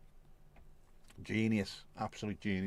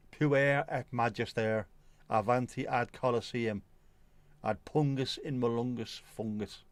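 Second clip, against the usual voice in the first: put-on slow, deliberate Irish Navan accent on the Latin; Navan-accented mock Latin recital; slower than usual. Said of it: "with a Dublin, well, a Navan accent".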